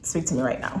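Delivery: low, quiet retold brush-off; mock cold warning. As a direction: imitate a hushed keep-away warning. Imitates own annoyed warning.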